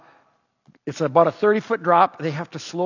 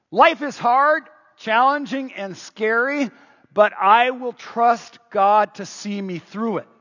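louder and higher, declared like a pledge; reading the sign out loud; 3 semitones higher, slower than usual. Retold or imitated. Leader voicing the rappellers' pledge, read out loud. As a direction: proclaim it loud from the edge of the roof. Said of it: "read this sign out loud".

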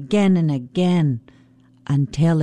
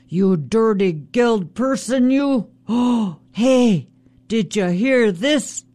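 high, mocking trickster Raven; Raven taunting; 4 semitones higher than usual. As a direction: goad the salmon, pitched up. Raven taunts salmon again.

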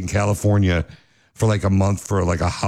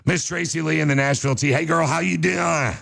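put-on horrible Southern accent; 6 semitones higher than usual. Host greets Miss Tracy Lee from Nashville, horrible Southern accent. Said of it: "you do a horrible Southern accent".

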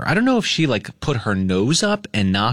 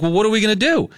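retold panic; 9 semitones higher, faster than usual. Owner asking Jess what to do about the choking dog, high panicked. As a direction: ask for help as if it's urgent.

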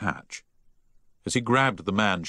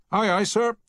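startled, much higher aye aye sir; startled reply; 14 semitones higher, 3 dB louder than usual. A narrator's reading. Engineer answers the captain, startled. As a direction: caught off guard by an old order. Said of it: "said a startled chief engineer".

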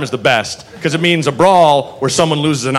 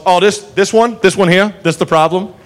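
Andy Griffith. Retold or imitated. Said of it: "this Andy Griffith".

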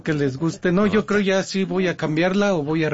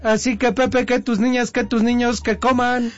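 higher-pitched sing-out lead-in; sign-off call; 6 semitones higher than usual. Pretend. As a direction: call it out in rising phrases to cue the host. Cook's rehearsed sign-off cheer.

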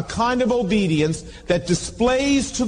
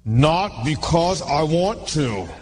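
grudging aside; 3 semitones lower, slower than usual. Retold or imitated. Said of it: "And I felt like saying".

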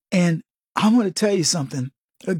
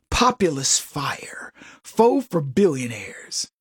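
hushed mock awe; 4 semitones lower, slower than usual. Mock dramatic listing of virtues.

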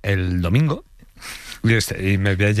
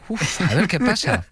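laughing mock worry; 10 semitones higher than usual. Acting nervous arrival.

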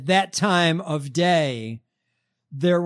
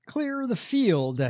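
preacher impression; 7 semitones higher, slower than usual. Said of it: "Mike Pence's radio voice?".

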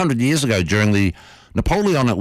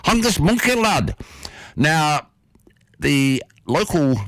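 "Hungus Monkey lad" in a much higher, hammed-up Northern English accent with a broad "lad"; 6 semitones higher, slower than usual. Shown as a demonstration. Host voices the Hartlepool mascot name, hammed-up Northern English accent. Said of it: "my best, or worst, Northern English accent".

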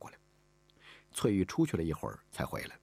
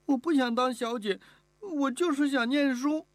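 put-on high, louder child's protest; insistent little girl; 5 dB louder than usual. Girl protests to the mistress, loudly insistent. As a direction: plead your case stubbornly, drawing out the last words.

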